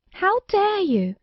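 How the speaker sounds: high, slow, outraged; how dare you, shrilly offended; indignant cry. Acted. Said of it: "cried the fairy in the bonnet".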